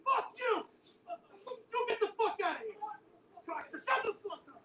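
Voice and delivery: high-pitched hammed-up yelling; reenacting the yelling at the attackers; retold yelling. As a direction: shout them down in a frenzy. Acted scene, yelling at attackers.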